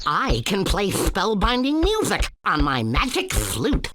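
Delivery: a hint of a theatrical fairy introducing himself; enchanting forest elf. The elf showing off his magic flute, lightly voiced. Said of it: "the enchanting forest elf".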